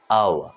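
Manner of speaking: আওয়া with silent h and no final r; British-style আওয়া, r dropped; British pronunciation. Shown as a demonstration. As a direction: say আওয়া ending on a falling open "a". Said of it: "এটার উচ্চারণ হচ্ছে".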